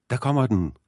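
put-on high-pitched excited boy's cry; skinger drengestemme. A narrator's reading. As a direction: pipe it up high, falling at the end. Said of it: "råbte han med skinger stemme". (skinger, højt drengeråb)

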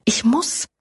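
sharp rising whisper; fierce whisper. A narrator's reading. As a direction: push the last words out hard, whispered. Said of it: "hämmerte es in ihr". (scharfes, drängendes Flüstern)

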